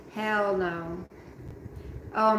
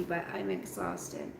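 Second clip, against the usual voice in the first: yawning; 13 semitones lower, 8 dB quieter than usual. Real, not acted. Telling Dorian she's exhausted, said through a yawn. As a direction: lower and softer, yawned out. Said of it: "I'm sorry I can't quit yawning".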